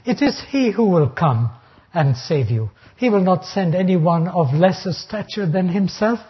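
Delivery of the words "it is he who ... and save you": emphasis on "he", then falling away; stress on HE. Shown as a demonstration. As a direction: lean on "he" as the emphatic word. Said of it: "It's an emphatic pronoun".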